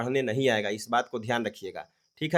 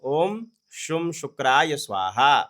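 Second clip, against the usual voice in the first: corrected mantra reading; 4 dB louder, much slower than usual. Shown as a demonstration. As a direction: set out "शुम शुक्राय" slowly after a long Om. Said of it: "लेकिन यहाँ पे होगा". (सही मंत्र धीरे से पढ़ते हुए)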